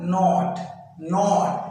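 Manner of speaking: Not said with a vowel between आ and ओ, clear and deliberate; pronouncing not. Shown as a demonstration. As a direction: model the word not slowly for students. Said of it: "ये बीच में sound निकालना है". (Not को आ और ओ के बीच की ध्वनि से साफ़ बोलिए)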